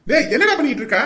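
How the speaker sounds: irritated elder brother on the phone; curt, scolding question; angry demand. Acted. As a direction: demand an answer crossly. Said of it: "அண்ணன் இப்படி கோவப்படுறாரு".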